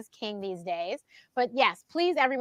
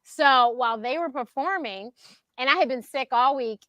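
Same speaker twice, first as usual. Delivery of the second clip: normal talking voice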